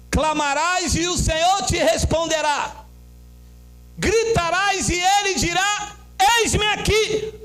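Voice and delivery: scripture declamation. Real, not acted. Preacher reads the next verse to the church, declaiming. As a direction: proclaim the verse in drawn-out phrases.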